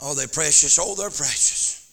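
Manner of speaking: soft quiet preaching. Acted. Quiet aside about tears.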